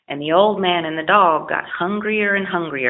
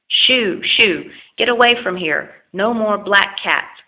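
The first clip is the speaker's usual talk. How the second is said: angry; 3 semitones higher, 3 dB louder than usual. Acted. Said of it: "angrily said the old fisherman".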